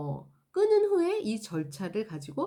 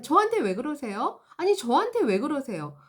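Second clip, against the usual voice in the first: defensive whine; 3 semitones higher, 4 dB louder than usual. Retold or imitated. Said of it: "그 직원이 계속 반복했던 얘기가".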